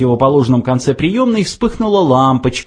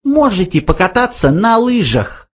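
high, mocking mouse voice; sarcastic; 10 semitones higher than usual. A narrator's reading. Benjy mocks Slartibartfast, high sarcastic. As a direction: needle him with the offer. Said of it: "язвительно предложил Бенджи".

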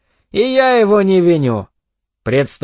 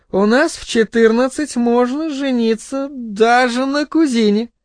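tipsy goading mother; 4 semitones higher than usual. Acted. Drunk mother advises her son about a girl, goading. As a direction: egg him on, ending high.

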